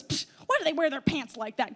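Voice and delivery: a soft, mock scoffing old lady; lightly voiced grandma scoff. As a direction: sniff at the passers-by disapprovingly. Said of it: "she scoffs".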